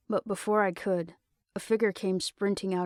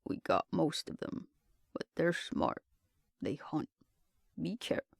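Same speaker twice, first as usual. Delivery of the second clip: whispering; 3 semitones lower, 6 dB quieter than usual. Acted. Wounded captain whispering on radio.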